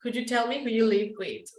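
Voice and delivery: brisk teacher model of "Could you tell me who you live with?"; quick model sentence. Shown as a demonstration. Teacher repeating the model question for students, brisk. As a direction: rattle it off as a natural model. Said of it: "preposition at the end".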